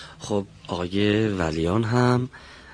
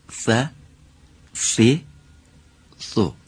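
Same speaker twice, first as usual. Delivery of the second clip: ث as Arabic "th" in a full Arabic accent; 2 semitones higher, 3 dB louder, much slower than usual. Shown as a demonstration. Teacher modelling for a student, full Arabic accent. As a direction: pronounce each ث syllable with an Arabic accent. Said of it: "به لهجهٔ کامل عربی".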